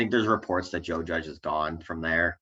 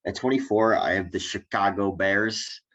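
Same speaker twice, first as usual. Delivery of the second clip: put-on Chicago accent; 4 dB louder than usual. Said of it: "That's the worst Chicago accent I've ever heard".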